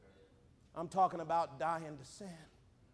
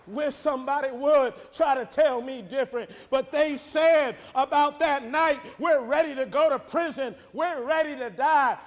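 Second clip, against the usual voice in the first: raised, projected sermon delivery; preaching; 6 semitones higher, 8 dB louder than usual. Acted. Preacher quotes the disciples' promise to Jesus, forceful preaching. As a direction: declare the vow with force.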